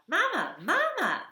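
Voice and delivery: tiny high squeaky chick voice; high peeping baby bird; baby gosling peep. Acted. Gosling again.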